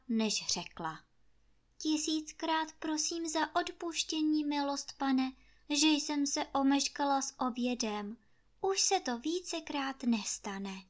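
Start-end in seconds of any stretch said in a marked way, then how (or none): 1.8-10.8 put-on high, meek and overly respectful servant girl; humble whisper-like plea. Maid Anče meekly apologizing to master Trautenberg. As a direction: beg forgiveness sweetly, higher voice. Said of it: "přeuctivě spíš špitla".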